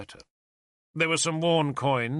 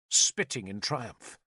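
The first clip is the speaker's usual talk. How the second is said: usual speaking voice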